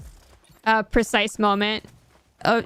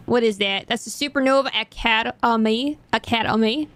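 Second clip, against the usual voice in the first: put-on horrible Alabama accent. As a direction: attempt a mild Alabama twang. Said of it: "That's a horrible Alabama accent".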